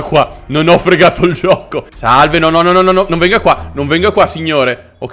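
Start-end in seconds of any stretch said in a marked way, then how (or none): 1.9-4.9 mock pleading. Begging enemy not to approach.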